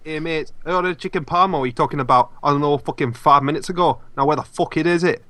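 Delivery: low mock-British grumbling customer; British parody accent. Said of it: "all of our terrible British accents".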